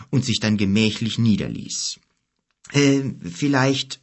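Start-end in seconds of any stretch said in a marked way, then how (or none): 2.7-4.0 slow, tentative start; hesitant. Acted. Boy asking the giant for introductions, hesitant. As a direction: draw it out, unsure whether to go on. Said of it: "sagte Kim zögernd zu Gork".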